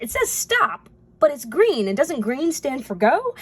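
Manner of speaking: high-pitched, confused questioning; puzzled mock protest. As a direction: act baffled by mixed signals. Acts out the confused driver.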